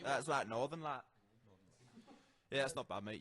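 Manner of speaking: mock northern English accent; hammy Northern English bloke voice; put-on northern English lad accent; British accent. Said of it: "How is your British accent?".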